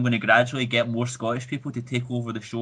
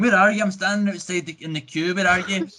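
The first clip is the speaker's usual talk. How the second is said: mildly exasperated calling, pitched up at first; retold exasperation; 3 semitones higher than usual. Trying to find a friend at Comic Con, mildly exasperated. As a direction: imitate frustrated calling into a phone. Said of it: "this was so infuriating".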